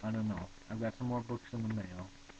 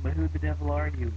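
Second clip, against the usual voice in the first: loud, higher outraged question; exclaiming; 7 semitones higher, 14 dB louder than usual. Acted. Spook demanding who the philosophers are, loud and high. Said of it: "exclaimed Spook".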